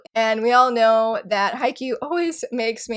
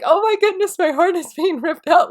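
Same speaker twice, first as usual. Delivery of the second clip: dramatic anguish; 7 semitones higher, 5 dB louder than usual. Retold or imitated. Gushing over manga heartbreak.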